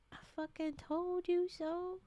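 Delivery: told-you-so. Retold or imitated. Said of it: "And she's like".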